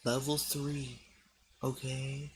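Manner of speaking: hushed warning whisper. Acted. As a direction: whisper it like a secret.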